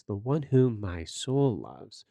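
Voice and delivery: slowed, deliberate "the one whom my soul loves"; emphatic phrase. Shown as a demonstration. Pastor contrasting it with "my lover", slow and deliberate. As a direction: lean on "whom" and stretch the phrase out. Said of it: "It's a very emphatic phrase".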